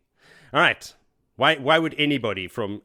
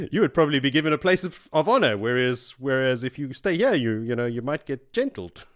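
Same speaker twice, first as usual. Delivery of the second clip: coaxing, louder and higher persuasion; laying it on thick; 4 semitones higher, 4 dB louder than usual. Retold or imitated. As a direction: sweet-talk him into it. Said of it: "laying it on thick".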